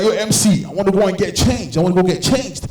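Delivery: a hint of a demanding bride; lightly voiced bride. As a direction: put on an insistent bride, lightly.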